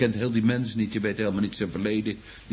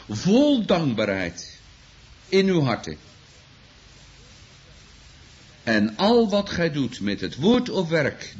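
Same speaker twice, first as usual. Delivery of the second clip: louder, slow, ringing scripture reading; preaching at full force; 3 semitones higher, 4 dB louder than usual. Acted. Preacher proclaiming scripture to the congregation, loud and slow. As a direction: proclaim it from the pulpit.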